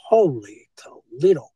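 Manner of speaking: drawn-out, punched exclamation of retold shock; retold astonishment. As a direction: stretch it out as if recalling disbelief. Quotes own astonished reaction back then.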